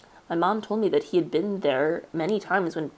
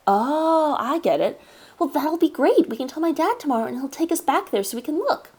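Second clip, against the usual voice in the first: put-on higher eager boy voice; bright kid catching on; excited kid; 8 semitones higher than usual.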